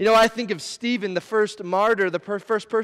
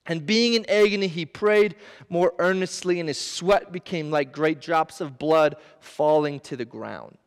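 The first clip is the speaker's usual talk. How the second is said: scripture reading; 3 semitones lower than usual. Acted. Reads Luke's account.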